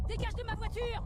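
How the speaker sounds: high, very loud shout; full-force yell, pitched high; panicked angry yell. Acted. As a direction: scream at an intruder to back off. Yelling intruder away from car.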